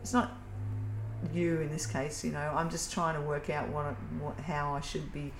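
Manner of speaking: softly spoken, measured request for space; calm reassurance. Acted. Models calm words to other person.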